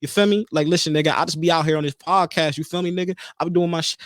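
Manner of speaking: lightly mocked street-slang accent; imitated street slang. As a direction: put on a touch of street talk. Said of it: "I don't talk like that".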